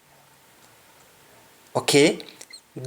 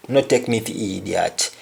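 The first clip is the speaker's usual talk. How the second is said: "No take me for idiot" in a Jamaican Patois lilt, "for" as "fa"; a touch of Patois indignation; 3 semitones lower than usual. Shown as a demonstration. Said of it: "an example like".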